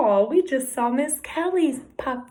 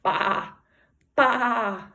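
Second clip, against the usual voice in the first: sheep baa; 2 semitones lower than usual. Shown as a demonstration. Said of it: "And he says".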